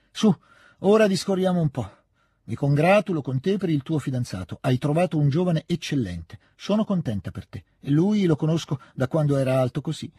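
fond, brisk heart-to-heart; fond old lady. Acted. Old lady talks to Natascia. (vecchia signora affettuosa e decisa)

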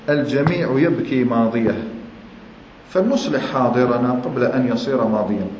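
slow, deliberate recitation of "الجميع يبكي ماضيه"; slow for memorizing. Shown as a demonstration. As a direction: spell the saying out slowly so they can memorize it. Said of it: "والله مليح اللي يحفظها الواحد". (إلقاء بطيء للحفظ)

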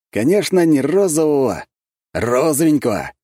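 «розовенького» протянуть насмешливо-ласково; нажать на «розовенького» с издёвкой; ударение на «розовенького». Acted. Шутливо поправляет генерала. («розовенького» сказать игриво, с ударением)

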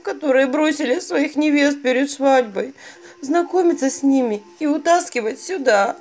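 high, loud tearful bride voice; weepy bride. Acted. Bride explains her job, weepy voice. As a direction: keep the bride's whiny lament going.

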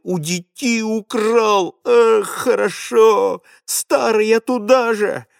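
put-on boy keeps raging at grandfather through gritted teeth. A narrator's reading. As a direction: spit it out between clenched teeth. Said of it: "продолжая сквозь зубы".

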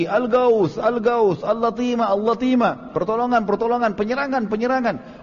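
high-pitched mock alarm cry; crying out for help. Damdam crying out in alarm at Mecca's gate, high-pitched. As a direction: call out "Al-Gaus" high, like a panicked herald. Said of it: "teriak lagi".

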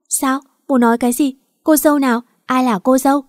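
a stunned daughter who can't believe what her father says; shocked disbelief. Acted. Bride news shocks the daughter. (sửng sốt không tin nổi)

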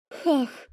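a sudden hysterical burst of laughter. A narrator's reading. Vika bursting into hysterical laughter. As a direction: let a nervous laugh escape. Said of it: "выдала истерично".

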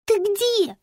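put-on a small girl's high voice; child's voice, high. Little girl asking Lampa on the phone, childlike and high. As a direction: call out like an anxious little girl.

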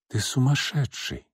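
soft, weary rebuke; quiet. Acted. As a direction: say it quietly, worn out. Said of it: "тихо сказала она".

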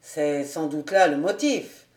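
mocking. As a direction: say it with a touch of mockery. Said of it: "un accent de raillerie".

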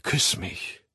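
soft, breathed invitation; softly entice a lover; seductive. A narrator's reading. Woman asking the man for a kiss, seductive. Seductive plea before she lowers voice.

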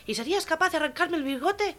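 high, commanding sergeant voice; barking sergeant. Acted. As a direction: demand an answer from a recruit. Sergeant questioning a recruit in joke.

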